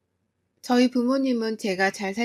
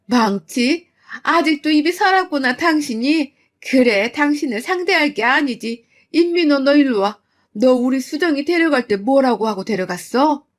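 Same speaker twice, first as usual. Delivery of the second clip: mother demanding the son-in-law answer; angry mother; 3 semitones higher, 5 dB louder than usual. Acted. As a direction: call him over like a child. Mother turning on husband.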